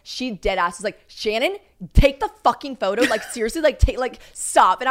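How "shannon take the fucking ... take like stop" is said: raised voice, retold. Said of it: "she's never raised her voice".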